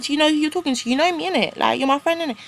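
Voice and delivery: high, loud pleading. Retold or imitated. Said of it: "I was like".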